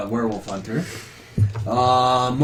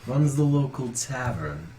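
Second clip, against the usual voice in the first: lightly voiced priest, pitch swinging higher in places; priest introducing cousin; 4 semitones higher than usual. Priest inviting the hunter to the tavern, lightly acted. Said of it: "he just says".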